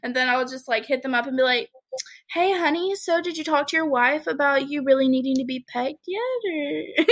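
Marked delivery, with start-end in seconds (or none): 2.3-7.1 high, sugary "hey honey" tease; sugary mock-sweet nudge to a client; sweet teasing client voice. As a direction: coo it at him like a flirt.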